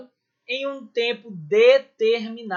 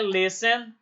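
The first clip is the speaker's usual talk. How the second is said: "listen" stressed on the first syllable, LIS-ten. Shown as a demonstration. Teacher confirming how listen is stressed, on the first syllable. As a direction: keep the weight on "lis" in "listen". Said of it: "a sílaba tônica é o les".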